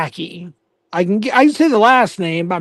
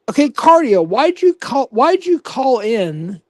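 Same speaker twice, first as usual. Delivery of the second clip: confronting call-out; 5 semitones higher than usual. Real, not acted. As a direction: call the rival out, indignant. Calling out a rival streamer.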